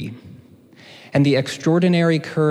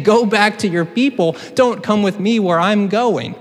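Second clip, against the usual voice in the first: higher, louder brush-off; mock shooing; 7 semitones higher, 3 dB louder than usual. Naomi ordering Ruth home, mock insistent. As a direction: send her packing. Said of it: "she's saying".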